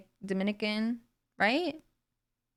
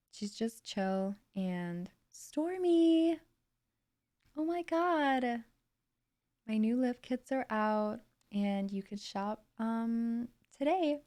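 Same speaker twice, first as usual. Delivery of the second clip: slow, chilled West Coast American drawl; lazily drawn-out reality-star voice, rising on exclamations; Kylie Jenner; 2 semitones higher, slower than usual. Acted. Streamer imitating a chill reality star plugging lip kits, slow drawl. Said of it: "I find a Kylie accent, you know".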